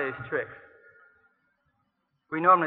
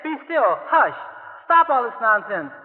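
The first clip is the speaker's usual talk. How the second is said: commanding calm; 4 semitones higher, 4 dB louder than usual. Pretend. Jesus commanding the storm.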